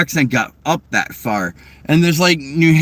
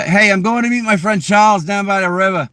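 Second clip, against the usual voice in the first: higher-pitched Boston accent, "Charles" without the R; 7 semitones higher than usual. Shown as a demonstration. Showing how Boston would say it, Boston accent. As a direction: drop the R's like a Bostonian. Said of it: "In Boston, we'd be like".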